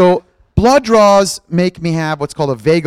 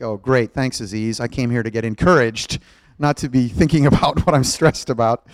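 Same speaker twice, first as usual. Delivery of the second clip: lower, mildly sarcastic grumble; sarcastic listener; 6 semitones lower than usual. Retold or imitated. Listeners grumble at the pastor's question, lightly sarcastic. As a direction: voice the congregation's mock complaint, understated. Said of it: "You're like".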